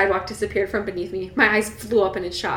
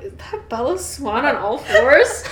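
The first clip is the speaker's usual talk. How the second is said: slow, laughing disbelief; gawking classmate; 3 semitones higher, 3 dB louder, slower than usual. Pretend. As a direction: gawk at her, laughing. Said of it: "They're like".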